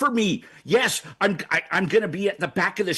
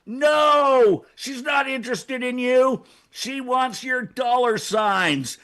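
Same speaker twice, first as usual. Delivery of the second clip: firm warning; 5 semitones higher, 3 dB louder, much slower than usual. Real, not acted. Warning the audience loudly.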